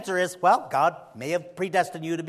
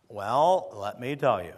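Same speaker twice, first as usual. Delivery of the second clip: imitating Camping; 6 semitones lower, slower than usual. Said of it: "he would talk like".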